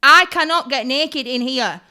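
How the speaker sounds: loud, punched protest on "cannot"; retold appalled refusal, word by word; emphatic refusal. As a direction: insist "cannot" in mock horror.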